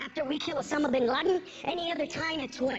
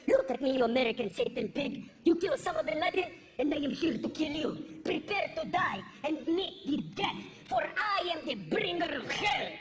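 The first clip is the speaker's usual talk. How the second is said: mock terrorist; 4 semitones lower than usual. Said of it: "walks in here right now and goes".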